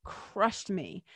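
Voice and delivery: slow, heavy, on the edge of tears; voice breaking. Real, not acted. Admitting to viewers how the news hit, choked up. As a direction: let the grief catch in the throat. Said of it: "you can hear it in my voice".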